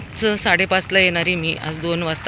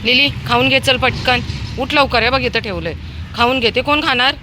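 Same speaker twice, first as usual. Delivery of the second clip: coaxing a pet; 6 semitones higher than usual. Real, not acted. Urging dog Lili to eat.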